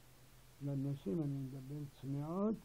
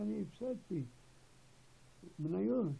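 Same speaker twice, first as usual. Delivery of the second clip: mock yell, raised in pitch; retold shouting; 5 semitones higher than usual. Hospital patient yelling at his wife over lost shares, retold mock shout. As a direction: imitate an agitated patient yelling. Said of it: "הוא צועק על אשתו בבית חולים".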